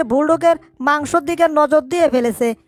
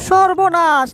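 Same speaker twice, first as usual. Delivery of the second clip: a touch of cartoon shock; mild dismay; 3 semitones higher than usual. Finds the toothpaste eaten and room wrecked, dismayed. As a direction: exclaim in alarm at the damage.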